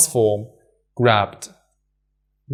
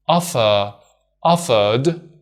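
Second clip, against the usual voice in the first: offer, offered with the R sounded, American style; one accent; slower than usual. Shown as a demonstration. Teacher showing the ED ending stays d with the R. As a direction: say both with the R. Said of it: "So we say".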